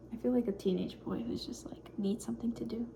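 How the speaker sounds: hushed whisper, shy of being heard. Real, not acted. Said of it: "I can't bring myself to talk very loudly".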